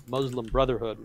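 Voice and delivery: "Muslim" as MUZ-lum, carefully placed; deliberate attempt at "Muslim"; careful pronunciation. Real, not acted. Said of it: "I'm gonna try to say it".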